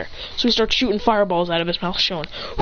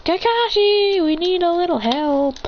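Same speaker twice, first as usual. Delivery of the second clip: high-pitched cry for help; acted alarm in a high voice; panicked plea; 9 semitones higher than usual. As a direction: call your teacher to the rescue. Frightened students call for teacher.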